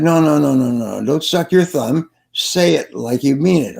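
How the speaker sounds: emphatic coach correcting the crowd; mock scolding. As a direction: reject it firmly with quick repeated no's. Coach scolding a timid audience.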